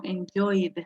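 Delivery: "enjoyed" ending in a voiced D straight after the vowel; final D sound. Shown as a demonstration. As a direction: say "enjoyed" in two syllables, closing on D. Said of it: "con D al final".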